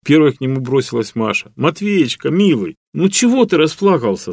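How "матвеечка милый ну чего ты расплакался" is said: babbling tenderly. A narrator's reading. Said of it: "залепетала она".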